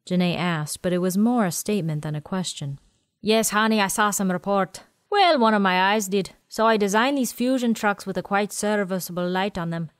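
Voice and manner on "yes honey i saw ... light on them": put-on quirky old man.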